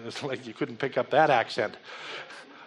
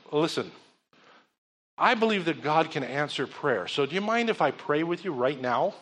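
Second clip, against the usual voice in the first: gentle offer. Retold or imitated. Offering prayer softly.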